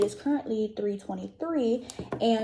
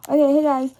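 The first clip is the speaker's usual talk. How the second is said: loud; 4 semitones higher, 11 dB louder than usual. Real, not acted. Restarts intro after dropping camera.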